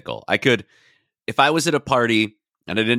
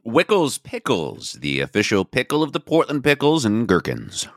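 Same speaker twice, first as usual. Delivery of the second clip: slow deliberate ad read; sponsor read; slower than usual. Shown as a demonstration. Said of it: "you do the read".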